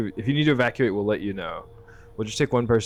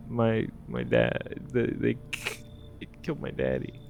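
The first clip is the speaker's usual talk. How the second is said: attempted little girl; 2 semitones higher, 4 dB quieter than usual. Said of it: "I can't do a little girl voice".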